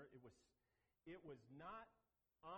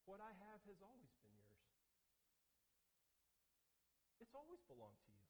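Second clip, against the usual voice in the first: tender father; 3 semitones higher, 6 dB quieter than usual. Retold or imitated. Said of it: "He said".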